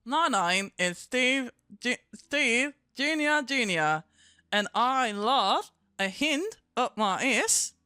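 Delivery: slow, drawn-out puppet voice. Pretend. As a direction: voice the puppet lightly, slowly. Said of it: "That's more Kiwi".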